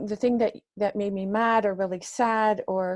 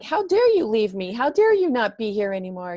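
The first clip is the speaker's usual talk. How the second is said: retold angry reproach; 5 dB louder, faster than usual. Retold anger at lost brother.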